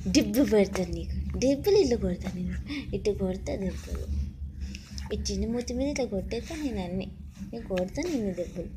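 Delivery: fake-threaten the baby gently; mock threat.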